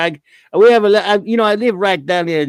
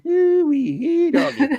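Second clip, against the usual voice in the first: high, whooping Cajun "Hoo-wee, hee, doggy"; Cajun holler; 10 semitones higher, slower than usual. Acted. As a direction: yelp it like a bayou cook. Cajun exclamation impression.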